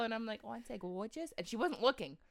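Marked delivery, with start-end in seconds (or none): 0.4-1.3 put-on little-kid "gorgeous" with a mangled r; childish mispronounced "gorgeous", lightly mocked; childhood speech impediment. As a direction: imitate a preening child who can't say "gorgeous". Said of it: "a speech impediment".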